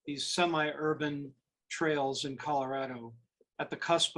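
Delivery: measured poetry recital with pauses between phrases; poem reading. Acted. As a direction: read your poem aloud, letting each line settle. Reads own poem aloud.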